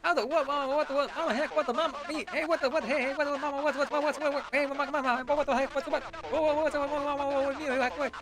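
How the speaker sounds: high, babbling "what the what" freakout with laughs; breathless sing-song panic, giggling through it; frantic squeaky panic. Acted. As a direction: squeal it out like a flustered cartoon. Frantic repeated what-the-what chant.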